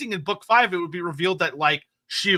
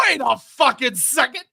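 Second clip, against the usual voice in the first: mock realization; 5 semitones higher than usual. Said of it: "looks over and goes".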